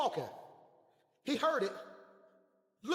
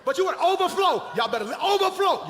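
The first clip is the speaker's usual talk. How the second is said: loud, raised-pitch preacher burst; preacher cutting loose; full-force preaching; 7 semitones higher, 10 dB louder than usual. Real, not acted. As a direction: punch it out to the congregation.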